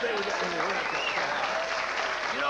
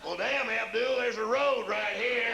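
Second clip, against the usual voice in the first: put-on higher, slower generic Arabian accent; a sheepish Iraqi soldier in a lightly done Arabian accent; mock Iraqi accent; 6 semitones higher, 3 dB louder, slower than usual. Iraqi soldier answering his comrade Abdul, mock Arabian accent. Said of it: "Iraqi accent?".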